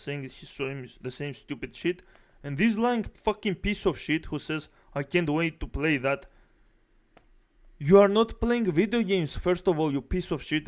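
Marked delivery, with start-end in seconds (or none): 2.4-6.3 angry rant. Real, not acted. Ranting at presenter. 7.8-10.7 loud, high furious rant; angry yelling. Real, not acted. Ranting at presenter.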